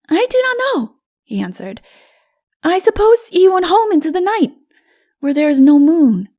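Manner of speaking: put-on high, loud, breathless child telling a scary tale; a little boy reliving the shadow; Odu the child, frightened. Odu tells the narrator of the shadow, high and frightened.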